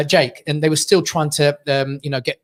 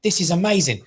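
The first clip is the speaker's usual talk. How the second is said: awed amazement. Retold or imitated. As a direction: linger on the wonder. Retelling fascination at the surgery.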